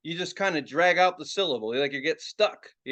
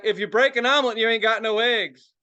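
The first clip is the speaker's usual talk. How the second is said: put-on hillbilly accent; 3 semitones higher, 4 dB louder than usual. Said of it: "It's just with the accent".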